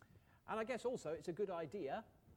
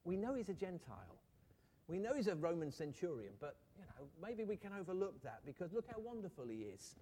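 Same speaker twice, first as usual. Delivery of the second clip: a touch louder and higher, eager persuading; lightly voiced pleading elders; 4 semitones higher, 3 dB louder than usual. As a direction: talk Jesus round on the centurion's behalf. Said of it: "can't you just hear those elders".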